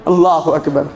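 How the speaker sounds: low collective shout of Allah اکبر; the crowd answers together; crowd takbir. Real, not acted. Congregation answers the preacher with a low takbir.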